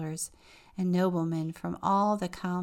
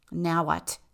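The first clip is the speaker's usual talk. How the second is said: snapped; 5 dB louder than usual. Acted. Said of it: "the wren snapped".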